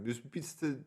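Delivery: tongue-tied false starts before finishing the phrase; real fumbled, halting restarts; stumbling over words. Real, not acted. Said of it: "Excusez-moi, je bafouille".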